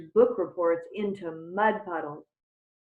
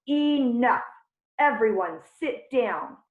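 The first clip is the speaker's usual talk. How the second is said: loud, higher roar at the class; 4 semitones higher, 5 dB louder than usual. Acted. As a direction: bellow it to stop the noise. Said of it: "Mister Jupiter roared".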